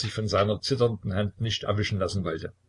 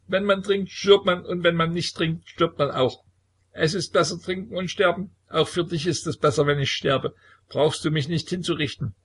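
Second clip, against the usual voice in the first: hohe, lallende Säuferstimme; betrunken; 8 semitones higher, 3 dB louder than usual. A narrator's reading. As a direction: betrunken und schicksalsergeben. Betrunkener Sohn philosophiert. (hohe betrunkene Stimme, kindisch)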